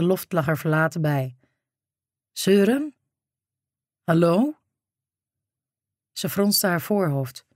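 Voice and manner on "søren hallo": raised, searching call; louder call into the silence; calling out again. A narrator's reading. (opnieuw luid roepend)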